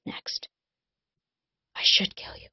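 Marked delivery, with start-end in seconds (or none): 1.7-2.5 hushed threat; whispered. Acted. Colin to Rune, a whispered threat. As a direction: breathe the threat out. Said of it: "Colin whispered".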